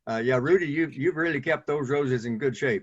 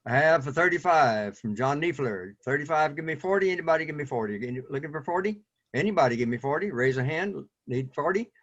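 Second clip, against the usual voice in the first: auctioneer. Acted. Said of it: "puts on his auctioneer, uh, gear".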